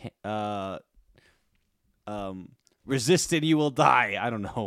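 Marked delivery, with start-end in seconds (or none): 2.9-4.2 lightly voiced robot cop threat; a hint of a mechanical lawman; RoboCop. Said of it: "as RoboCop would say".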